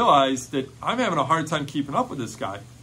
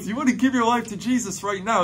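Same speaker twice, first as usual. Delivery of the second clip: fired up; 8 semitones higher, faster than usual. Retold or imitated. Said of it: "I was just so fired up in faith".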